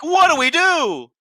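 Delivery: very high, drawn-out whine of cluelessness; mock helpless wail. Mocking the show's clueless characters.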